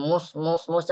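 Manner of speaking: mus with lips barely rounded; a lazy mus, not fully rounded; half-rounded vowel. Shown as a demonstration. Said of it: "jangan nanggung".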